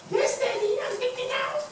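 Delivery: very high, squeaky son voice; cartoonish little-kid falsetto; animated child. Shown as a demonstration. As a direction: answer daddy in a tiny high-pitched voice.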